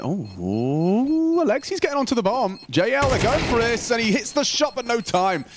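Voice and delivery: high, fast hype call; excited caster call. Acted. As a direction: jump up as the play breaks. Excited play-by-play burst.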